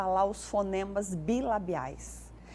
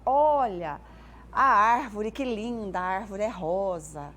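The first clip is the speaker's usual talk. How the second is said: put-on parent talking to baby; 4 dB louder, slower than usual. Shown as a demonstration. Parent in the car pointing out trees to child, cheerful baby talk. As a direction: show the world to a child in the car seat. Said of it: "sempre falo assim pros pais".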